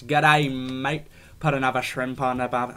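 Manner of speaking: loud, hammed-up Aussie greeting; bad Australian accent. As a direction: attempt a broad Australian accent and fail. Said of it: "I can't do an Australian accent".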